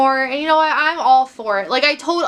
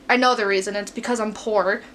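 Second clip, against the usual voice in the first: retainer in mouth. Real, not acted. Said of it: "talking to you guys with my retainer in my mouth".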